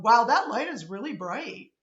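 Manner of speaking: Wow, that light is really bright lifting at the end like a question; statement sounding like a question. Shown as a demonstration. Teacher demoing her declarative that sounds like a question. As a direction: make the statement rise. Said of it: "That sounds like I'm asking you a question".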